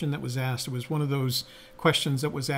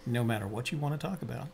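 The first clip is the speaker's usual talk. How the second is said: late night DJ; 6 dB quieter than usual. Pretend. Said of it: "Do the late night thing".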